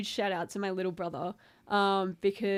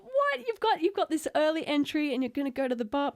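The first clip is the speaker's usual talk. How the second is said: incredulous; 6 semitones higher than usual. Retold or imitated. Retold disbelief.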